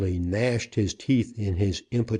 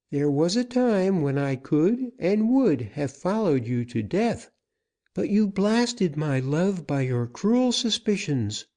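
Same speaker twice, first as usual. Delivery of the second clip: much higher, firm female voice; firm woman's voice; 7 semitones higher than usual. A narrator's reading. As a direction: stand your ground as Susana. Susana accuses the outlaw.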